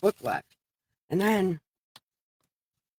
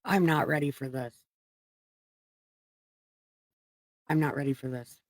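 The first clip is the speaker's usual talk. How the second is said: getting emotional; 3 semitones lower, 5 dB quieter than usual. Real, not acted. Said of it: "I wasn't gonna get emotional".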